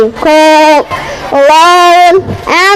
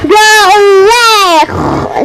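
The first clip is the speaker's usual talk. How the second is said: pig shooing; 4 semitones higher, much slower than usual. Acted. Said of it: "say the pig".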